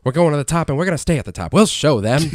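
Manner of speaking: put-on fast, lightly old-timey announcer; radio announcer voice. Shown as a demonstration. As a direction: sell it like a twenties radio man. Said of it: "Like the radio announcer voice".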